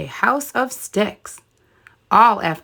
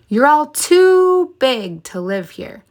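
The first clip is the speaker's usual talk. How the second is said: mother pig; 5 semitones higher, 3 dB louder than usual. Acted. Mommy Pig warning her piglets.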